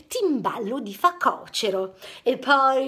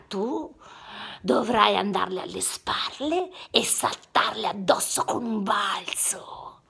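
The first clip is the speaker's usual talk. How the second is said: whispered lion master; 5 semitones lower, 3 dB quieter than usual. Acted. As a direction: whisper like a wise old master.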